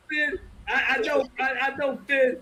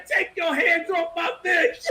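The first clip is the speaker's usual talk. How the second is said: mock jealous anger; 4 semitones higher than usual. Acts out jealous man while laughing.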